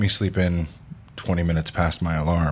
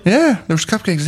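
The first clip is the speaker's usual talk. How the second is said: much higher, emphatic yes, cupcakes; excited insistence; 13 semitones higher than usual. Real, not acted. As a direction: insist eagerly that it's true. Insists after "Really?.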